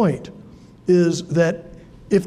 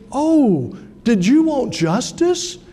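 higher, drawn-out retold challenge; pointed mock question; 6 semitones higher, slower than usual. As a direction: imitate a professor challenging a student. Professor challenges complaining student, retold.

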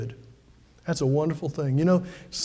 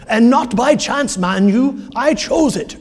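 higher, louder imitation of a Scottish accent; 6 semitones higher, 5 dB louder, slower than usual. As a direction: quote the Scottish pastor in his brogue. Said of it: "young pastor from Edinburgh who was a Scottish".

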